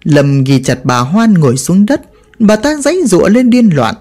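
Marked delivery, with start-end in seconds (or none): none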